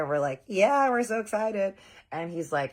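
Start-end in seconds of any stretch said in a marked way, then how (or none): 0.5-1.7 slow, high, drawn-out gush. Retold or imitated. The girls telling Harley they're excited, slow high gush. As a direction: gush like a giddy girl. Girls gushing about diamonds.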